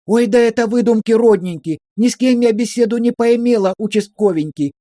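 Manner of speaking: high, pleading sing-song; high wheedling lament. A narrator's reading. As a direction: wail back in hurt protest. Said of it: "Верка замахала руками". (высокое жалобное причитание)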